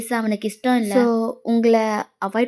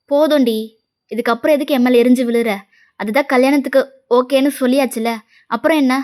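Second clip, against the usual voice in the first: louder, impatient telling-off; exasperated scolding; 4 dB louder than usual. Acted. Mother fed up with girl's outburst about marriage, exasperated scolding. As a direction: scold her with mild irritation, voice raised.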